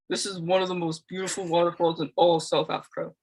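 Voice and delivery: lightly deepened voice of a man; bass male voice. Acted. Game reader voices hiker Leon praising the waterfall, lightly put-on bass male voice. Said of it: "Just put some bass in the voice".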